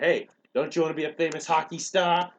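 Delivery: a hint of a persuading coach; mock coaxing question; retold coaxing coach. Coach coaxes kid, retold.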